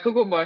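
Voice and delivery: CUCUMBER as "koo-koom-bo"; Jamaican pronunciation. Retold or imitated. Customer ordering at Subway, Jamaican pronunciation. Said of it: "I got to the cucumber".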